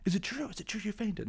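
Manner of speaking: very high mocking singsong; Malfoy. Schoolboy teasing Harry about fainting, high mocking voice. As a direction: tease in a squeaked put-on voice. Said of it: "behind them is Malfoy".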